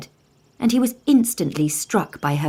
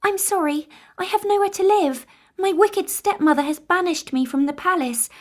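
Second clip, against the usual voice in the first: Snow White; 11 semitones higher than usual. Acted. Snow White asks the dwarves to let her stay, gentle. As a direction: plead gently.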